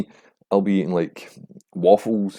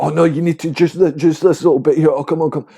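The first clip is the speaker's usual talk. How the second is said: much higher, louder wheedling voice; mock insistent friend; 8 semitones higher, 4 dB louder than usual. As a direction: coax them to try one little bite. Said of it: "And then you're".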